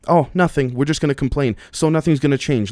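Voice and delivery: mock complainers.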